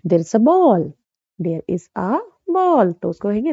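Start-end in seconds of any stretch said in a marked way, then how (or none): 0.1-0.9 slow and even; slow example. Shown as a demonstration. Teacher giving a slow example to students. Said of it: "जैसे बोलेंगे ना". 1.4-2.9 slow, careful full form; slow example. Shown as a demonstration. Teacher slowly reading the full form to students. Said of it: "जैसे बोलेंगे ना".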